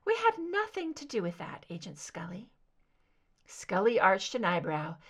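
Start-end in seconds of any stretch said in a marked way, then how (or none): 0.0-2.5 higher, airy voice fading to a whisper; lightly voiced ethereal woman, trailing off to a whisper; soft soprano captor. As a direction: let the name fall into a breath. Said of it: "higher pitched ... soft soprano".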